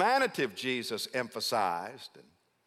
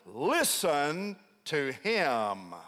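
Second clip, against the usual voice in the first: voice from heaven; much slower than usual. Acted. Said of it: "there's an addendum".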